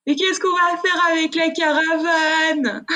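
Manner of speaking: put-on high, slow little-kid voice; small child's bewildered question; childish question. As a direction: play your younger self asking innocently. Child's naive question quoted.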